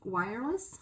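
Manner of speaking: put-on slow, halting Portuguese with a foreigner's accent; gringo accent. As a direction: grope for each word like a gringo new to Portuguese. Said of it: "Um gringo ... vai falar assim pro vendedor".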